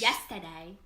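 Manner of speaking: low attempted Irish accent. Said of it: "Do Irish".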